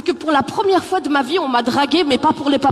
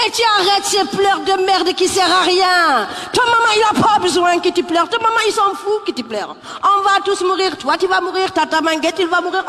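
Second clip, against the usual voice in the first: scolding auntie; 5 semitones higher than usual. Retold or imitated. Senegalese auntie telling the crying girl to stop, shouting. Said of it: "une maman sénégalaise".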